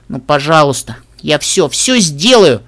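drawn-out promise in a begging voice; pleading. A narrator's reading. Little sister hugs her brother's neck, pleading.

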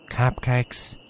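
reluctant, quiet mumble of surrender; Applejack. Acted. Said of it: "Applejack sighed deeply and took the treat".

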